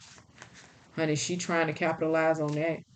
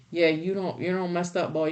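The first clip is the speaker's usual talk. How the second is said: Southern scolding. Retold or imitated. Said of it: "That's my, my carnal voice".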